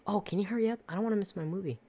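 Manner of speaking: high, impatient old lady voice, imitating; mock impatient old lady. Old lady nagging staff while her movie is swapped, mock impatient. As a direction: hurry them along like a fussy old lady. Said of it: "she's like".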